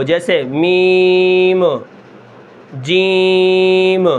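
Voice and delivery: جیم کا میم بغیر قلقلہ کے; no qalqala. Shown as a demonstration. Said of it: "قلقلہ نہ ہو".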